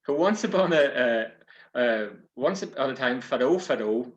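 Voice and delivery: lively storyteller opening a yarn; story narration. A narrator's reading. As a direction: tell it like a fireside yarn.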